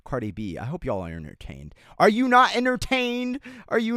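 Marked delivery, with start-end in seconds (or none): 2.0-4.0 higher, louder arena declamation; gladiator quote. Pretend. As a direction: proclaim it like a gladiator to the crowd. Quoting Gladiator to chat.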